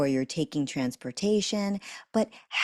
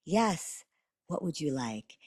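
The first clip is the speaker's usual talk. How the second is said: softer, patient answer; calm reply; 5 dB quieter than usual. Shown as a demonstration. Parent answering a calling toddler calmly. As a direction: answer the child gently. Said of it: "You're gonna say".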